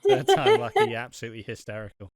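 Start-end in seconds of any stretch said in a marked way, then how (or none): 0.0-1.0 high squeak. Real, not acted. Sarcastic high exclamation.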